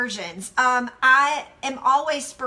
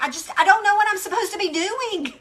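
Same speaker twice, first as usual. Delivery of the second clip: raised, exasperated quote; 5 semitones higher than usual. Retold or imitated. Voicing the stressed listener, exasperated and raised. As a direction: throw up your hands in frustration.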